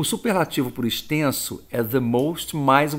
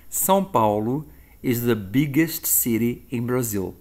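slow example sentence. Shown as a demonstration. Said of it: "Como é que eu vou dizer isso em inglês?".

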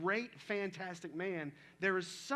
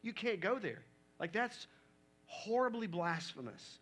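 higher-pitched, scandalized protest; mock objection; 4 semitones higher than usual. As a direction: cut in like someone urgently calling time out. Acting out shocked religious leaders objecting.

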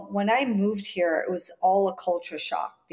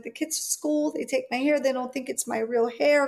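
lightly voiced young girl explaining; child's reply; 4 semitones higher than usual. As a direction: answer mom like a hurt kid. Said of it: "I'm like".

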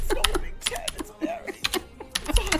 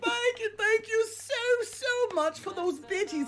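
Haughty Chicken; 5 dB louder than usual. Acted. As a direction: stretch out the thanks like a parody streamer. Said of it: "playing me".

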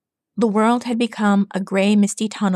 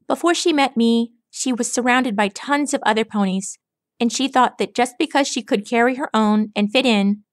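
put-on cocky pegasus recalling an old friend; Rainbow Dash; 3 semitones higher than usual. Rainbow Dash voiced by narrator.

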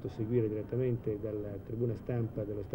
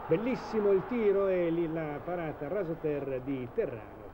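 breathless italian goal commentary; 4 semitones higher than usual. Real, not acted. Shot on goal, commentator builds.

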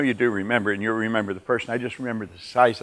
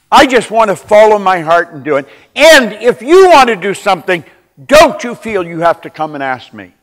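much louder, pushing the point home; forceful retold advice; 7 semitones higher, 12 dB louder than usual. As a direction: press him hard to take charge. Retold advice scripting the husband's words.

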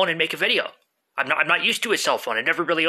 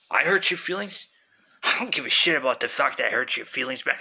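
arguing with myself; 4 semitones lower than usual. Acted. Stoned voice answers back.

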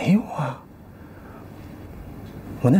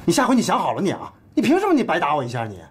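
higher, aggrieved complaint; indignant grumble; 8 semitones higher than usual. Acted. Husband complaining wife hit him for nothing, aggrieved grumble. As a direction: grumble at the injustice.

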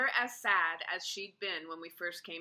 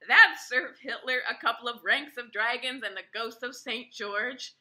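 laughing; 4 semitones higher, 9 dB louder than usual. A narrator's reading. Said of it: "She laughed harder".

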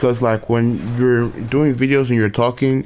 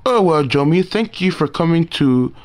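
reading game dialogue. Acted. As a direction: read the characters' lines with a little acting. Reads game dialogue aloud.

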